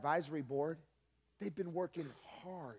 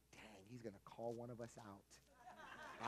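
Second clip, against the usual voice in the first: nervous laugh; 4 semitones lower, 12 dB quieter, slower than usual. Retold or imitated. Nervous thought during service.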